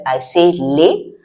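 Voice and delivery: les said lay, French vowel; les, the s silent. Shown as a demonstration. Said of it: "when I say the L E S".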